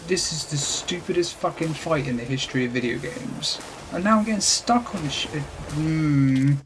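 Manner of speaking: exasperated, genuinely annoyed; real rising anger. Real, not acted. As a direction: vent at a stupid fight, ending in a growing grumble. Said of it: "you can hear how angry I'm getting".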